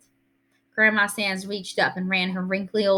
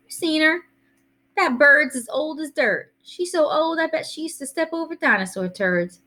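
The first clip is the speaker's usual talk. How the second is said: put-on higher-pitched boy's voice, scornful; wisecracking kid; 8 semitones higher than usual. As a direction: crack wise about an old lady. Voices Byron mocking Grandma's age.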